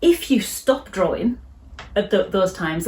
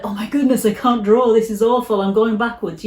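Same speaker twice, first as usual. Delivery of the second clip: anxious self-talk. Retold or imitated. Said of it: "don't let it eat you up that".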